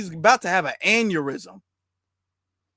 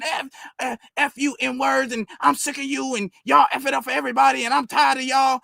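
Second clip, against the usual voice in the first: imitating a furious rant, slightly higher; mock angry yelling; 5 semitones higher than usual. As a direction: parody the angry ranting. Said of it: "he was on ten the whole time, yelling".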